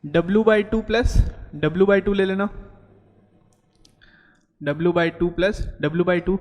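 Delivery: formula read out slowly, term by term; slow formula dictation. Shown as a demonstration. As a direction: spell out the formula for the class. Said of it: "मैंने आपको बोला था".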